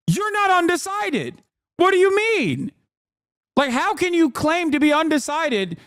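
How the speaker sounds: bursting out in disbelief; incredulous. Real, not acted. Streamer arguing with undecided voters, incredulous.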